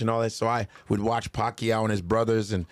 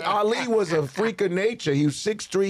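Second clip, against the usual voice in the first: higher, matter-of-fact lecture; lecturing trainer; 7 semitones higher than usual. Retold or imitated. Trainer lecturing comedian about Ali, higher voice. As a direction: explain why he is no Ali. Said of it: "He goes".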